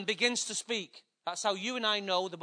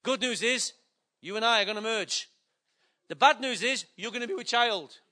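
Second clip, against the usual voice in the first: mock husband to wife. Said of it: "He's gonna".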